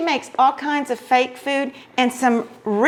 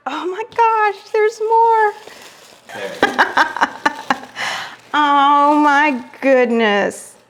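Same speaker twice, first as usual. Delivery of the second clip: can't believe there is even more; excited; 3 semitones higher, slower than usual. Real, not acted. Finding more gifts.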